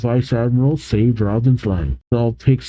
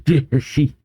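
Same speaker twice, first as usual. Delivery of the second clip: imitated "shi-shi-shi" chuckle; put-on silly laugh; silly character laugh; 2 semitones higher than usual. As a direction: act out a goofy signature laugh.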